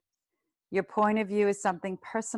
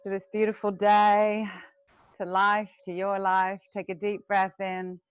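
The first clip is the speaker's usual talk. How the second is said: guided meditation. Acted. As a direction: lead the class gently into the breath. Teacher leads breathing meditation.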